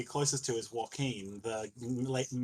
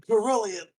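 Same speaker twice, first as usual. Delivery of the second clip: a sudden higher, louder oath; exclaiming; 9 semitones higher, 7 dB louder than usual. Acted. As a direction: cry out the god's name. Character cries out while being branded.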